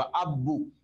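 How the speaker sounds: अब्बू with a held double b and a long u; अब्बू, the b doubled for tashdeed; doubled b demo. Shown as a demonstration. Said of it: "तशदीद है तो ऐसे पढ़ेंगे".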